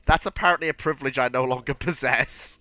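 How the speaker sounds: stuffed-up nose, no nasal air; blocked nose. Real, not acted. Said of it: "no more breathing through nostrils".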